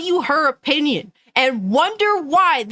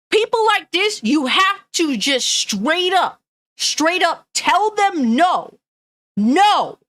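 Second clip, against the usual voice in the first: heated; 3 semitones higher, slower than usual. Real, not acted. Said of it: "I'm sorry if I'm getting heated".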